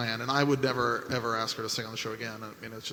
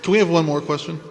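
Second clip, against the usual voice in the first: laughing dodge; 5 semitones higher, 6 dB louder than usual. Real, not acted. Dodging awkward question with laughter.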